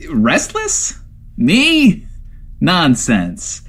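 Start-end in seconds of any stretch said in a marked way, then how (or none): 0.1-2.1 high, offended "Me?"; indignant surprise. Acted. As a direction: scoff at the very idea. Indignant retort, high pitch.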